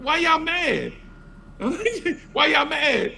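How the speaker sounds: high voice laughing through the taunt; teasing laugh. Retold or imitated. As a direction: taunt them while laughing.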